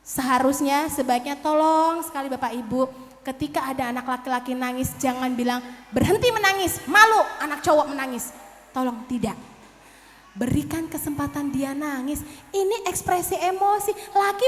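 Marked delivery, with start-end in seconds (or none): 5.9-8.3 louder, higher mock rebuke; mock scolding. Parent shaming a crying boy, mock scolding. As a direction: act out a parent's sharp order.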